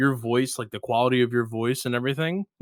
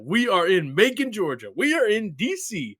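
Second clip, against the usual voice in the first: excited; 5 semitones higher, 4 dB louder than usual. Retold or imitated. Retold yelling at GeoGuessr screen.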